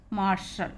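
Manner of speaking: "मार्शल" said mar-shal; teacher's model word "मार्शल", sh in the middle. Shown as a demonstration. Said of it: "शलगम वाले सा के रूप में".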